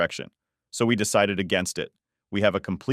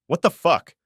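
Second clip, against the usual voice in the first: loud, higher shocked swear; startled higher and louder cry; shocked outburst; 9 semitones higher, 7 dB louder than usual. Retold or imitated. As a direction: blurt it out in horror. Shocked at mother-in-law in room.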